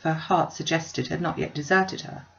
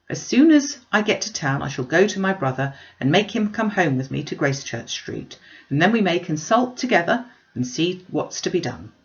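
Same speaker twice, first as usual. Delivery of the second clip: uncle reassuring; 3 dB louder than usual. Acted. Uncle calming Mrs Bennet.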